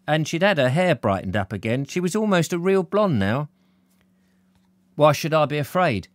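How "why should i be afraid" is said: mildly defiant, pitched up. Acted. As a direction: push back with a touch of defiance. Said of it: "he said defiantly".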